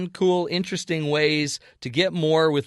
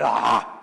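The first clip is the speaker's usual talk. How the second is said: dismayed mock cry; a put-on wail of dismay; exasperated groan; 5 semitones lower, 3 dB louder than usual. Retold dismay at retake.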